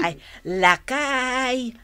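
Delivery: slow, drawn-out doting endearment; doting wifely coaxing. Acted. Wife fussing over her husband at dinner, doting. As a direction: stretch it out fondly.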